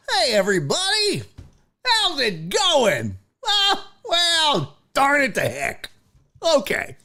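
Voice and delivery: high-pitched, hammed-up corporate white voice. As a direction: parody squeaky-clean white corporate cheer. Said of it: "let's do white voice".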